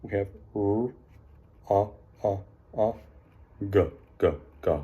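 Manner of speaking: each sound of "R, A, G" said separately and clipped; sounding out letters. Shown as a demonstration. Teacher to class, sounding out "rug" letter by letter. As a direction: sound out one box at a time. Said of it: "we sound them out one box at a time".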